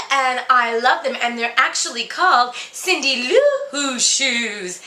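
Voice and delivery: a lightly voiced, brassy fairy-tale princess dishing gossip; sassy Cinderella. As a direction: spill the tea like a jaded, bored princess. Holds Cinderella role in mock interview.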